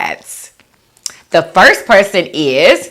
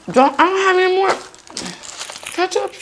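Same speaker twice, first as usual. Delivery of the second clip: much higher whining voice; high whiny complaint; 14 semitones higher, 4 dB quieter, faster than usual. Real, not acted. Complaining mid-meal, out of ketchup.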